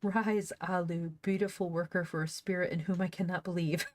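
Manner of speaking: mock-regal retake fighting a laugh; grand empress. Shown as a demonstration. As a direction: play up the empress's command, lightly hammed. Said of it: "that was so funny".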